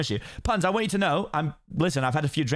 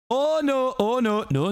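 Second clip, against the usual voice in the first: high, drawn-out dismayed cry; acted dismay; 7 semitones higher, slower than usual. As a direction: wail it in mock horror. Shrek sees creatures in his swamp.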